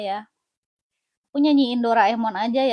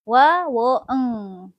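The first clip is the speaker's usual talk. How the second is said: laughing; 4 dB louder, much slower than usual. Real, not acted. Sings through a laugh.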